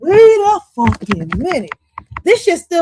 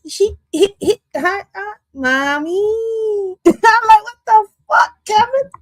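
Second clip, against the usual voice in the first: laughing; 10 semitones higher, slower than usual. Real, not acted. Laughing at Kevin's story.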